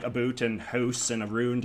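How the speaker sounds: "boot", "house", "round" with ooey Canadian vowels; imitated Canadian oo sounds. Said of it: "this kind of ooey sort of sound".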